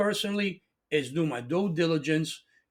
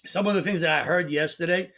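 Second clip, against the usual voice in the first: choking. Real, not acted. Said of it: "I got excited and I'm choking".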